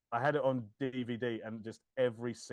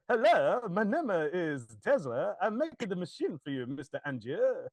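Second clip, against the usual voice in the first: a light mock of a singer's awful Tesla accent, "Hello" louder; imitating a singer's Tesla accent; 3 semitones higher, 4 dB louder than usual. Podcaster imitating a singer playing Tesla, a light mock accent. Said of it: "his accent as Tesla is awful".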